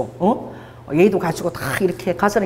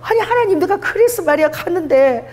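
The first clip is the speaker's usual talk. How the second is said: high-pitched retold outburst at God; exasperated, raised-voice grievance, retold; angry complaint; 8 semitones higher than usual. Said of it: "내가 막 화가 나서".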